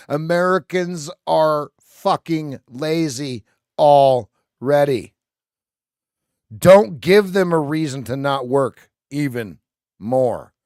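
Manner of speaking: loud, slow, exasperated rant. Real, not acted. Streamer ranting to chat about holidays, loud and fed up. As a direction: hammer it out, fed up.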